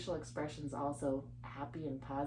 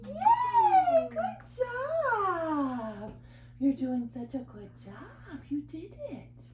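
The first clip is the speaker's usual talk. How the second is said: put-on high and louder cheering for the baby; excited praise; 13 semitones higher, 5 dB louder, much slower than usual. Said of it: "give her lots of praise".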